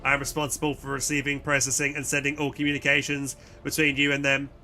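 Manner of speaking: measured, machine-like delivery; robot voice. Acted. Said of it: "some robotic voice".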